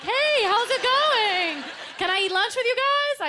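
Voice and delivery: high, slow, eager hello; shy kid trying to make friends, high and bright; chirpy new girl. Retold or imitated. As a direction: sweetly ask to join lunch.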